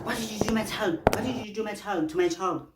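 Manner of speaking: hint of a distraught mother; imitating upset mother. Mother asking her daughter what happened, high pleading. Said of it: "mother, Lena".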